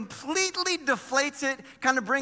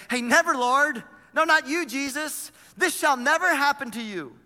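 louder, higher alarmed protest; protesting rebuke; 3 semitones higher, 3 dB louder than usual. Acted. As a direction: push back hard, as a friend refusing. Peter rebukes Jesus, acted quote.

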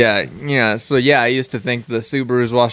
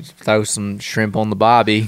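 put-on Australian accent; 3 semitones lower than usual. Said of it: "what I was trying to get out".

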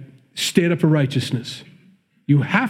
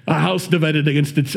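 put-on not very good Irish accent; half-hearted mock Irish; poor Irish accent. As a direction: try an Irish accent, badly. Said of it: "it's not even a very good one".

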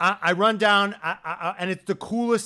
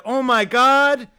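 loud, drawn-out Oh my God; slow, loud groan of disbelief; mock dismay; 7 semitones higher, 9 dB louder, much slower than usual. Dreading the rain, a slow, loud mock groan. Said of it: "You're like".

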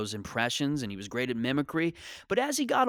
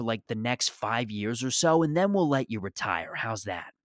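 manager's voice. Retold or imitated. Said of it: "And he goes".

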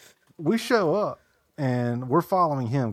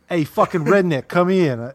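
higher, louder mock Boston cop; Boston cop singling out a stranger; mock cop call; 6 semitones higher, 7 dB louder than usual. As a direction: bark it like a cop picking out the redneck. Imitating Boston cops.

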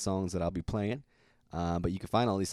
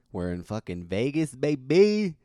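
excited; 3 semitones higher, 4 dB louder than usual. Real, not acted. Hyped call about being in Vegas.

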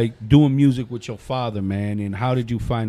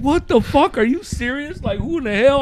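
mock disbelief; 12 semitones higher, 4 dB louder than usual. His stunned reply retold.

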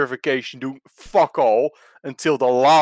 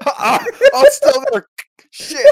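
dust in eye; 6 dB louder than usual. Real, not acted. Dust still in his eye.

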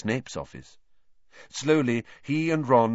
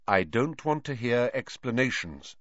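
curt; 3 semitones higher than usual. Acted. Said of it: "said Lupin shortly".

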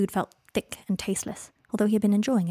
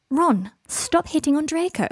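high, loud, drawn-out reprimand; scolding; 8 semitones higher, 5 dB louder, slower than usual. A narrator's reading. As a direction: tell a friend off, slow and pitched up. Hermione tells Ron off.

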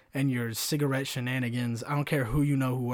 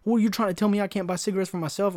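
louder, higher outraged retort; mock-outraged customer; losing his mind; 7 semitones higher, 4 dB louder, faster than usual. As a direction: indignantly challenge the clerk, voice raised. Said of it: "loses his mind".

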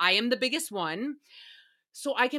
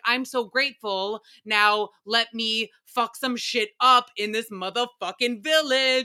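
starts level, ends in a louder rowdy burst; grateful, then ready to wreck the village, getting louder; building mock rowdy outburst; 4 dB louder than usual. Host imagining her port arrival, building to a louder rowdy yell. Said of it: "I'd be like".

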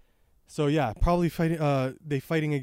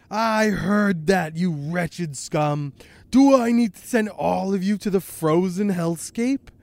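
slow, higher, louder menacing outburst; angry threat; 4 semitones higher, 5 dB louder than usual. Acted. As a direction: threaten them loudly, drawing the words out. Aokiji threatens plotters in manga.

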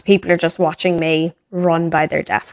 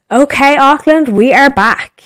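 radio DJ; 8 semitones higher, 5 dB louder than usual. Retold or imitated. Radio host goes live.

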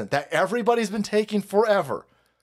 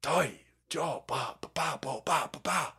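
lizard-language gibberish; 8 dB quieter than usual. Pretend. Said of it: "How do I say no in lizard person?".

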